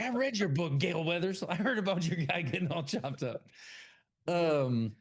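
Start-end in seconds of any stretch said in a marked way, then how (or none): 0.0-3.5 higher put-on movie voice; a light take on the creepy fan; Scream character impression. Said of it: "He's like".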